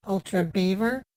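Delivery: Ultra Beaver? with a B, like the animal; the puzzled speaker mishears it as Ultra Beaver?. Real, not acted. Caller misreads the site name: Ultra Beaver? with B. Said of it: "It's viewer, not beaver".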